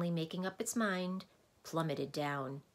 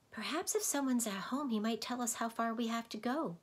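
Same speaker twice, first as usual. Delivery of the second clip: Milo's voice; 7 semitones higher than usual. Acted. Milo speaks hopefully.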